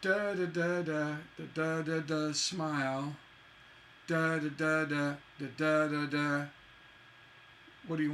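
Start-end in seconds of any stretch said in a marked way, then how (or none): 0.0-6.4 "da" syllables beaten out in rhythm, landing on "smile"; metre demo. Shown as a demonstration. Teacher shows the class a couplet's shape, metre demo. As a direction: chant "da, da, da" as a line's stresses. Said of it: "asymmetrical couplets like".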